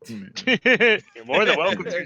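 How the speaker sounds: slow sing-song character welcome; bright squeaky sing-song welcome. Acted. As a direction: drawl the welcome out in a cheerful character voice. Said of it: "says Gil".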